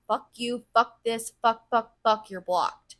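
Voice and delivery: re-enacting an angry kiss-off; punchy retold outburst, mildly heated; retold lashing out. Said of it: "I lashed out on that person".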